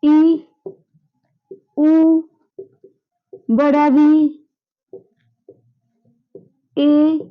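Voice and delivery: each long vowel held and said alone, long pauses between; teacher's vowel drill; long vowels recited. Shown as a demonstration. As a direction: call out the long vowels one at a time. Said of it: "दीर्घ में क्या आएगा".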